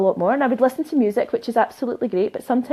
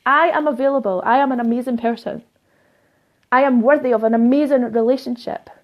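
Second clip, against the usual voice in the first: bold affirmation; 3 dB louder than usual. Shown as a demonstration. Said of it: "Literally stand in your room and go".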